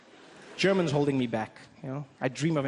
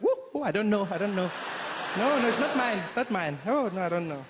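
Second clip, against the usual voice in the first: mock panicked mom; 4 semitones higher than usual. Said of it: "She'd be like".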